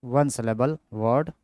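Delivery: very slow, drawn-out dictation. Shown as a demonstration. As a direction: stretch each word for note-taking. Dictating term slowly. (धीमी गति से लिखवाना)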